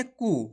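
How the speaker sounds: "कू।" with a briefly held u; short vowel. Shown as a demonstration. Teacher showing learners the vowel sign, short u in "कू।". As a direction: say "कू।" without stretching the u. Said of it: "कम खींच के पढ़ा जाता है".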